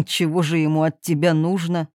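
a lightly voiced gentle old king.

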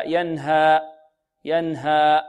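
ينهى said the wrong way before the correction; wrong version. Shown as a demonstration. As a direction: demonstrate the faulty ينهى. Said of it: "خطأ". (ينهى بنطق خاطئ)

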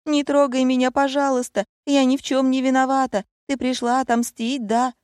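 high, frightened begging; terrified pleading. A narrator's reading. Scared friend begs the returned heroine not to hurt her, high and panicky.

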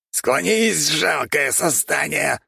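high squeaky rat shout; squeaking rat man. A narrator's reading. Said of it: "пропищала крыса".

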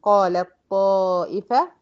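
قالت طائفة with ت merged into a heavy doubled ط; tajweed demo; recited example. Shown as a demonstration. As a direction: let the ل slide onto the thick ط. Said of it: "بدخل من اللام المرققة على الطا المفخمة".

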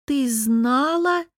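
high, very slow strangled wheeze; breathless wheeze. A narrator's reading. Lera realizing her friend knew, choked wheeze. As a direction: gasp it out, choked by hurt. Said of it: "задохнувшись от обиды, просипела я".

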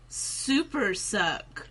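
slow, drawn-out camp quote; hammed-up camp line, very slow; camp delivery. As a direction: imitate a camp actor, stretching both words. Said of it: "delivered it in such a camp manner".

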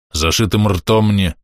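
stopped mid-sentence, slow; cut off mid word. Acted. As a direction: break off abruptly. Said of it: "осёкся на полуслове".

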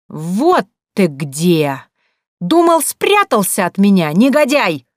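furious fake wife confronting the gate; shouting. A narrator's reading. Butcher's wife yelling at the doorman, accusing shout. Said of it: "закричала она".

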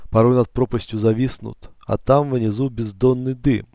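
measured poetic reading, slowing at the end; poem recitation. Acted. Narrator reads his contemplation poem, slowing to a hush. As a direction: recite it like a meditative verse.

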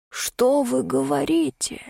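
slow, hushed horrified whisper. Acted. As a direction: breathe it out in shock. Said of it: "Рудольф в ужасе прикрыл рот". (испуганный шёпот, медленно)

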